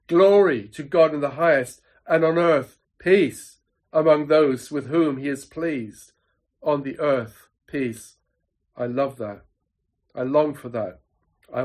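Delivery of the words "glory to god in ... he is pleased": mildly raised voice of angels proclaiming; proclaiming cry. Retold or imitated. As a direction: cry it out as joyful tidings, with restraint. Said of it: "they all cry out".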